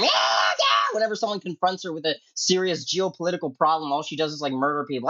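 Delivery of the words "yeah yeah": imitating a scream. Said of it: "screaming all the time".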